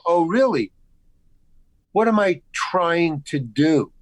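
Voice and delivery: slow, pointed retort; retold challenge, drawn out word by word; ready to argue. Insulted actor answers the director, ready to argue. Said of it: "ready to argue with him".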